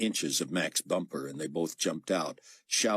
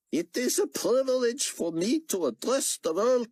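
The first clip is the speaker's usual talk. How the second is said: raised, lightly voiced speech; formal address; 3 dB louder than usual. A narrator's reading. Xian addressing the world on air, formal and lightly voiced. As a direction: announce it to the world.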